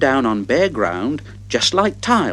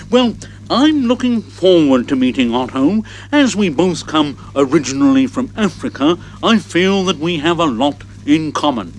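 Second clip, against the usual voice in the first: elephant voice. Acted. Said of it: "what Hooter the elephant has to say".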